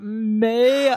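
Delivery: "Mail" held long on the vowel; drawn-out MAIL. Retold or imitated. Showing how he's saying it, "Mail" drawn out. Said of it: "drawn out".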